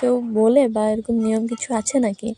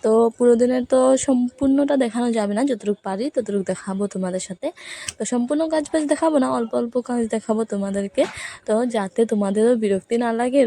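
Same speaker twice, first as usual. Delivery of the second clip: talking with a toothbrush in mouth; while brushing teeth. Real, not acted. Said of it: "আমি এখন brush করছি।".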